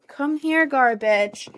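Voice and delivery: calling the cat. Real, not acted. Calling her cat over.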